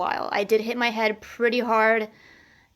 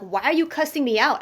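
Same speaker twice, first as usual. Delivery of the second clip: mildly indignant retold protest, pitch lifted; retold anger; 4 semitones higher than usual. Woman recounting her argument with her abusive ex, mildly angry. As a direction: replay your angry question, only half heated. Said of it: "I started getting really angry at him".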